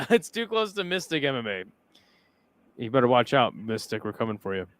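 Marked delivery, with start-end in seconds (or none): 0.1-1.6 laughing. Real, not acted.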